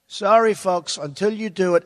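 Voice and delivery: polite, respectful brush-off; a courteous no, lightly played; very nicely, with respect. Negotiator politely telling Iran to deliver, courteous. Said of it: "very nicely, with respect".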